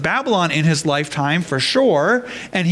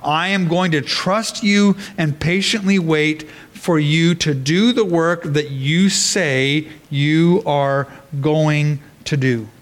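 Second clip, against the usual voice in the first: slow, steady prayer of trust; patient trust. Acted. Habakkuk telling God he will wait, slow and trusting. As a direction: let each word settle, unhurried. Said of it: "Habakkuk's response is".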